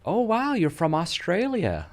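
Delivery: slow, high-pitched gushing American lady; high, drawn-out mock amazement; imitated American lady. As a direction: mimic an amazed American shopper. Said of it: "and the lady's like".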